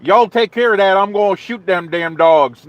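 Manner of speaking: a light Southern drawl, joking; lightly hammed-up Southern drawl, poking fun; mock Southern drawl. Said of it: "I did not say that with any Southern drawl".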